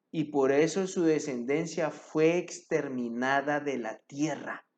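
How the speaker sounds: emphatic reading of a Bible story; scripture narration. A narrator's reading. Preacher reads the prophet's story to the congregation, emphatic narration. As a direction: read scripture out with measured emphasis.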